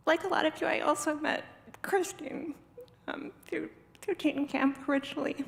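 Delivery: really fighting tears as you begin, pitch lifted; emotional. Real, not acted. Speaker remembering where they met Christine, tearfully emotional. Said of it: "I'm really emotional".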